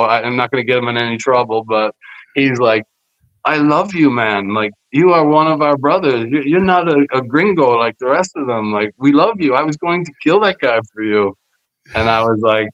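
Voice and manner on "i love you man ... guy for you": lightly imitated broken-English accent, higher-pitched; earnest pledge in imitated broken English; slightly put-on Puerto Rican broken-English accent. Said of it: "could only speak, like, broken English".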